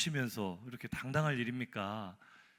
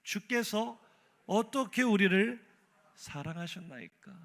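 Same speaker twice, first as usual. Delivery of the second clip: higher, slower, accusing question; indignant Israel; 5 semitones higher than usual. Retold or imitated. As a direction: demand it like a wronged people. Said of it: "뭐라고 합니까?".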